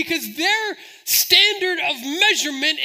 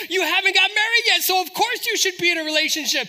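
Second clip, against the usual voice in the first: high, loud encouragement; imitated pushy friends; 6 semitones higher, 5 dB louder than usual. Friends push someone into a relationship, loud and insistent. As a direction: play a friend brushing off all doubts. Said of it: "our friends are like".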